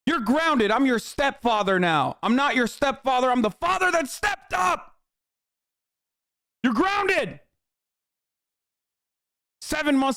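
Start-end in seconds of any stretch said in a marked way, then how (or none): 0.1-7.4 high, hammed-up stern stepdad, shouting; mock stepfather. Streamer joking at a subscriber as a hammed-up stepfather. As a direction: play the stepdad who stepped up.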